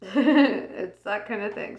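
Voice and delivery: talking through hiccups; words broken by hiccups. Real, not acted. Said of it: "Sorry, I have the hiccups".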